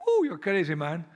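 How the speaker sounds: lightly acted heckler; mock heckling driver. Driver to the man blocking the road, mock jeering.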